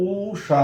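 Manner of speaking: ঊষা with a long-held first ঊ; long vowel. Shown as a demonstration. Teacher shows what we never say, ঊ in ঊষা dragged out. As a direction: stretch the ঊ at the start of ঊষা. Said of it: "কখনো না বলে".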